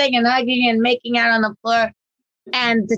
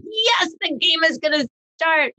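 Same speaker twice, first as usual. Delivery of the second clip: higher, eager dog voice; excited dog; 7 semitones higher than usual. Retold or imitated. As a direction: voice the dog's glee. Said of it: "they're like".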